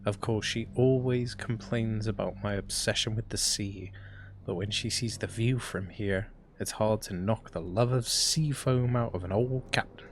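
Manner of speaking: journal narration. Acted. Reads keeper's journal aloud.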